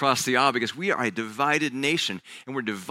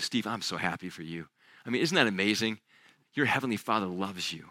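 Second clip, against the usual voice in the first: gentle, tender Jesus; 3 semitones lower, 4 dB quieter than usual. Acted. Jesus speaks tenderly to Steve.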